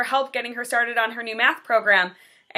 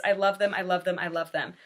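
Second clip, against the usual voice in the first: each repeat softer and lower until nearly hushed; tender, fading; 3 semitones lower, 4 dB quieter than usual. Real, not acted. Teacher telling viewers how much she loves her students, tender and fading. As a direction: say it with growing tenderness, trailing off. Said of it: "I love my kids".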